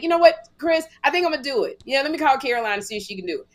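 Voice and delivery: retold excited decision. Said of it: "I was like".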